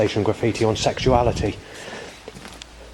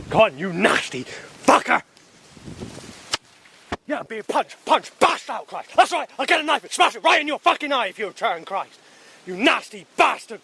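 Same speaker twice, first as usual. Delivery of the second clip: high-pitched furious ranting, spitting out insults; furious raised rant; 5 semitones higher than usual. Real, not acted. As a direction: hurl abuse upward, voice climbing high.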